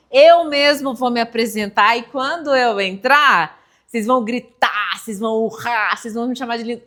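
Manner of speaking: lightly voiced stand-up comic; comedian hyping the crowd. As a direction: pump up the audience, loudly. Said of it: "falavam assim".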